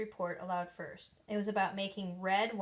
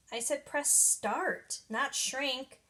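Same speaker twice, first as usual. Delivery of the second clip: upset; 5 semitones higher, 3 dB louder than usual. Acted. Stink blaming Judy for the shrunken wig, complaining. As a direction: whine it out, dragging the words.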